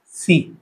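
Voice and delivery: सी said slowly and clearly as "see"; slow clear pronunciation. Shown as a demonstration. Teacher showing students how सी sounds, slow and clear. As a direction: stretch out सी as one long "see". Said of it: "आता याचा उच्चार काय होतो".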